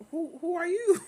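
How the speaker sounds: hammed-up outrage; mock confrontation. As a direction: shout it up at him. Imagined confronting mom's boyfriend.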